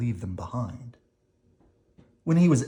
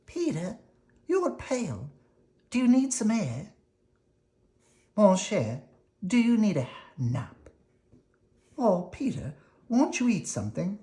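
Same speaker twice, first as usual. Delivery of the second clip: higher, anxious doting mother voice; fussing mother; 9 semitones higher than usual. Acted. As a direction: fuss over him like a worried mama.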